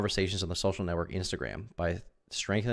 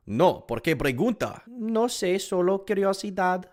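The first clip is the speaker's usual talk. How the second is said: voicing a chat exchange; 12 semitones higher than usual. Reading chat as characters.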